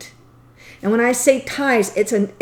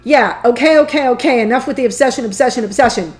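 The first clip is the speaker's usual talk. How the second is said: playfully impatient; 5 dB louder, faster than usual. Acted. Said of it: "that you're like".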